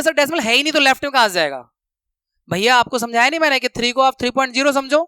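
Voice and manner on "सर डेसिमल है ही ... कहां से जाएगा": quick, lightly voiced student objection; mock student asking sir a question, faster; imitating a puzzled student. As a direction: toss out the doubt like a confused pupil. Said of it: "आप कहोगे".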